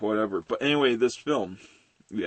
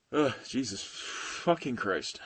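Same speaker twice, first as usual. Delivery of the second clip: slow, softer sighed curse; weary exasperation; 7 dB quieter, slower than usual. Real, not acted. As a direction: sigh it out, spent. Recovering from own outburst.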